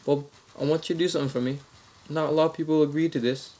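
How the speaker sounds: mock-Australian prank caller; Australian accent. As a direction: make a proposition as an Australian caller. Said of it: "same Australian accent".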